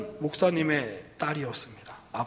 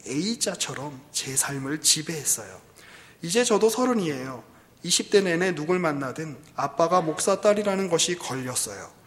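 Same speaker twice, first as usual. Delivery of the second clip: lightly voiced daughter protesting; 3 semitones higher, 4 dB louder than usual. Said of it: "딸이 이렇게 이야기합니다".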